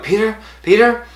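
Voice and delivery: high, loud summons; imitated high-pitched name call. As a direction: call "Peter" out high like a staffer. Staff calling out his name.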